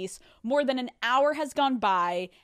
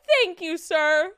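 higher, louder mock British accent; dubious put-on accent; 6 semitones higher, 4 dB louder, slower than usual. Guests thank the manager, dubious British accent. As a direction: thank him in a badly faked British accent. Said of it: "What is this accent?".

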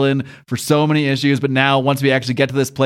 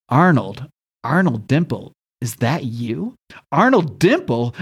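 halting, disbelieving question with pauses; dawning recognition; slower than usual. Retold or imitated. Dragon suddenly recognizing his old enemy, halting disbelief. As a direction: act out slowly recognizing someone, name by name.

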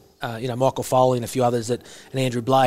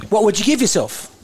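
imitating coach Eddie Jones; 7 semitones higher, 4 dB louder than usual. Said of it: "I'll go in and out of his voice".

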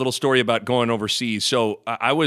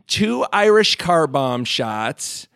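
slow, innocent order pitched up; lightly voiced wife; 3 semitones higher, slower than usual. Wife orders shots from Dublin bartender, slow innocent voice. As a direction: order it slowly, sweetly clueless. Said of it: "she goes".

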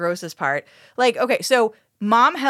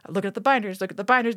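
mock-grave, a touch softer; very serious; 3 dB quieter, faster than usual. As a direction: deliver it like a solemn detective clue. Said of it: "very serious".

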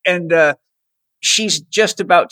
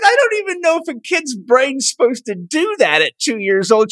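amazed; 5 semitones higher than usual. Retold or imitated. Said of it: "I said".

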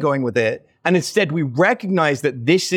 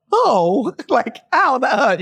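mock hurt actress; 7 semitones higher, slower than usual.

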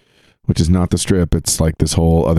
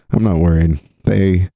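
ordinary delivery

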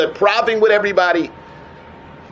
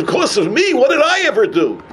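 higher-pitched, mock incredulous question; retold baffled protest; 5 semitones higher than usual. Blamed visitor to crying girl, retold baffled protest.

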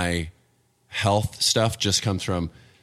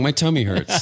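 put-on higher babyish whine; 6 semitones higher than usual. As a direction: complain like a little kid. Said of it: "You just act like a baby".

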